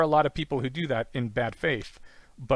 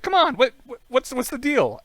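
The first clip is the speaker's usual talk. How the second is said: loud, pitched-up pestering; high mock pleading; 11 semitones higher, 6 dB louder than usual. Pestering someone who won't talk, high mock pleading. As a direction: badger them in a high, hammed-up voice. Acted pestering after a refusal.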